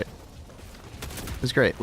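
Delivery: slow, breathy whispered aside; soft whisper. Real, not acted. Streamer echoes his praise of the birthday e-card in a slow whisper. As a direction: whisper it slowly, drawing out great. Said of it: "repeated in whisper".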